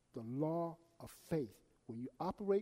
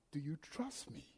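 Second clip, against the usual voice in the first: soft voice of God; 2 semitones lower, 8 dB quieter than usual. Retold or imitated. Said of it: "He asked me again".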